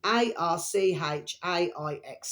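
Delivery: spelling it out. Shown as a demonstration. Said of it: "how to flipping pronounce it".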